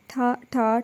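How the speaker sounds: softly voiced gunshot bangs; spoken imitation of gunfire, soft; gunshot sounds. A narrator's reading. Narrator voicing the gunshots at Hamdani, soft bangs. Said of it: "ٹھا ٹھا کی آواز".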